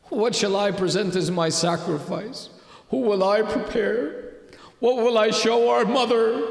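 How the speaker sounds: questions rising in distressed appeal, mildly acted; anguished lament. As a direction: plead with mounting anguish, retelling her words. Childless sister laments to brother.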